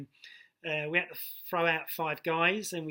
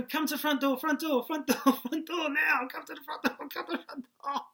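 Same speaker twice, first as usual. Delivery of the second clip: calling out urgently; 10 semitones higher than usual. Retold or imitated. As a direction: shout for backup as the crowd arrives. Calling the boss to the door.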